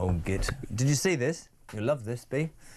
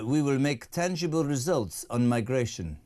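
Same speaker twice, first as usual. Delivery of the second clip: lightly imitated French president; Macron voice; 2 semitones lower than usual. Host quoting the French president on migration, lightly voiced impression. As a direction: give a hint of a statesman's announcement. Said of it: "Emmanuel Macron has just said".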